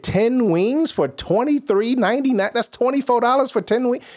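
high, comic disbelief; incredulous outrage. Retold or imitated. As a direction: repeat the price with voice way up. Outraged retelling of wing price.

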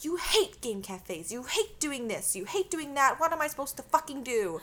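rising frustrated rant; exasperated complaint. Retold or imitated. Boyfriend's angry complaint.

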